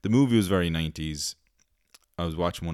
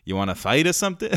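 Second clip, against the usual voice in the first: hammed-up American tough talk, close to laughing; American accent; 5 dB louder, faster than usual. Villain challenges a stranger, mock American accent. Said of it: "in his American accent".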